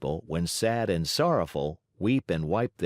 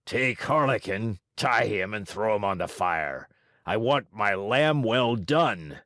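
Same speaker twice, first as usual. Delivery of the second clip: hoarse yell. Acted. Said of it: "yelled at them in a hoarse voice".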